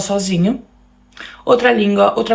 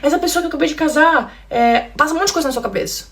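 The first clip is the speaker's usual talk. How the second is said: confused panic; 7 semitones higher than usual. Retold or imitated. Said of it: "eu ficava assim".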